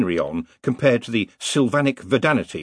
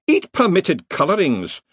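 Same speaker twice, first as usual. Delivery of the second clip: higher, louder battle cry; excited yell; 8 semitones higher, 3 dB louder than usual. A narrator's reading. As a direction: yell wildly as you fire. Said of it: "yelled an excited wizard".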